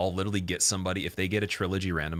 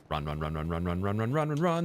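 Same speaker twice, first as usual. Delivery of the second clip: panicked, rising urgent chant; being chased. Real, not acted. Fleeing an enemy in game.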